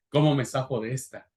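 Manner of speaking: chuckling through the words; laughing. Retold or imitated. Preacher repeating Moses' excuse, now laughing. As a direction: laugh as you repeat the dodge. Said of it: "Moisés dijo".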